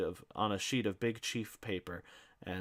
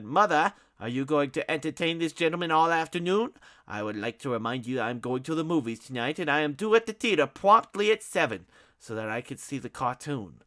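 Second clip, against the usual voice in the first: pompous Ignatius; 6 semitones higher, 8 dB louder than usual. Acted. Ignatius haughty complaint.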